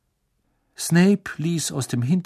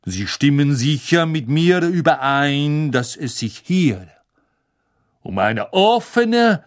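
unctuous; 4 dB louder, slower than usual. Acted. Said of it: "mit salbungsvoller Stimme".

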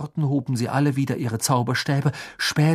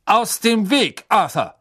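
cold command; 8 semitones higher than usual. A narrator's reading. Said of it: "herrschte ihn eine kalte Stimme an".

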